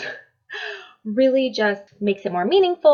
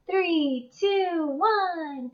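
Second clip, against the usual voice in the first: excited; 8 semitones higher, 4 dB quieter, much slower than usual. Shown as a demonstration. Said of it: "I give them to them like this".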